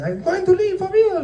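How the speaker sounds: high, mocking imitation of a huffy partner; mock dramatic threat. Imitating a partner storming out, high mock voice. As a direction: play up the big exit line.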